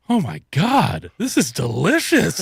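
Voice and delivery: imitating a kid's amazement with a laugh breaking in; delighted kid. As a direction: squeal a little over the gravy. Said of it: "They're like".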